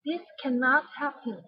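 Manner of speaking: "cannot" stressed; stressed with emotion. Shown as a demonstration. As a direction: lean on the word "cannot". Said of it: "put the stress on the words".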